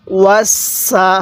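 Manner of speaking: ওয়াসা drawn out very slowly with a held স; slow demonstration. Shown as a demonstration. Teacher showing students the joined word, very slow. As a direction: stretch ওয়াসা slowly for the learner. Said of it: "সিন জবর সা".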